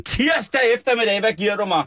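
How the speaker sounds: high-pitched incredulous cry; mock outrage. Host to co-host about crime on Tuesday afternoon, high mock outrage. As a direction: exclaim it in exaggerated disbelief.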